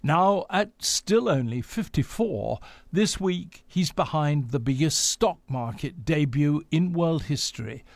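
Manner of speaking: measured scripted radio news delivery; news read. Acted. Presenter introduces Elon Musk's story to listeners, news read.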